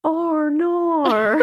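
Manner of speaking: Australian accent, with a laugh. Shown as a demonstration. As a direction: say it like an Aussie. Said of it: "in an Australian accent?".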